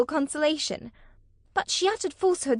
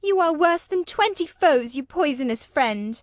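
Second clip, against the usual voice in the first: higher, louder bitter retort; angry rebuke; 7 semitones higher, 4 dB louder than usual. A narrator's reading. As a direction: spit the insult at her. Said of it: "she repeated angrily".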